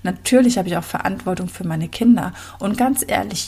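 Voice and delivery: usual speaking voice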